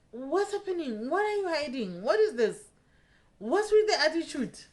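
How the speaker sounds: high-pitched, indignant questioning; indignant confrontation. Retold or imitated. Woman confronting partner over his attitude, high and indignant.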